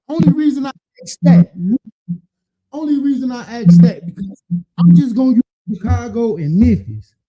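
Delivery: pounding the table while talking; banging the desk. Real, not acted. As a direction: slap the table to punctuate each point. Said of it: "Quit hitting the table".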